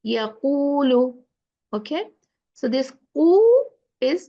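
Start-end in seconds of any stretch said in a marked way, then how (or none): 0.1-1.2 slow "Yaqulu" with extended rounded u; rounded long u. Shown as a demonstration. Teacher models wow maddiya, rounded long u. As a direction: round and stretch the middle of "Yaqulu". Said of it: "make your lips round".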